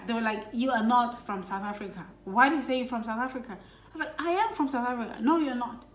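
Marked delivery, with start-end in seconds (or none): none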